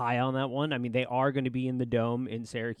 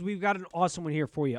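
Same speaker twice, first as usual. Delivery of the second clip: words stretched by a yawn; 5 semitones higher, faster than usual. Real, not acted. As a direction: talk through the tail of a yawn. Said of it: "I just yawned".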